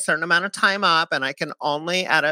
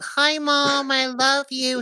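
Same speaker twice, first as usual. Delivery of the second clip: high, drawn-out greeting; calling to Mom; 9 semitones higher, slower than usual. Real, not acted. Host greets mother over the show, high calling voice. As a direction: sing out a doting hello to your mother.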